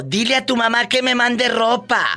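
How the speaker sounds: mildly acted husband, pitched high; husband's order. Husband to his child from the cantina, high-pitched mock order. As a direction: lightly imitate a husband sending an order home.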